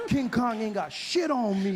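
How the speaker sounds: slow, swaggering brag with a laugh; cocky boast. Pretend. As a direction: chest out, big it up. Boasting after finding his black voice.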